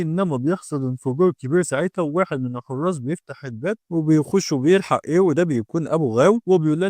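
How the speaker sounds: ordinary delivery, nothing marked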